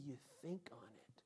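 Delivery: soft, near-whispered musing; hushed pondering. Shown as a demonstration. Preacher explaining meditation to listeners, hushed and pondering. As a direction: drop to a thoughtful whisper.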